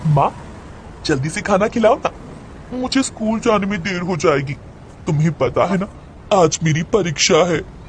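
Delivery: lightly voiced childlike mad girl, coaxing; a hint of a little-girl plea. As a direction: nag mother like an eager schoolgirl. Mad girl talks to mother.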